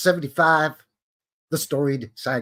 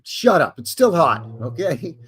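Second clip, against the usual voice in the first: mock annoyed; 3 semitones higher, 5 dB louder than usual. Snapping back at neighbor.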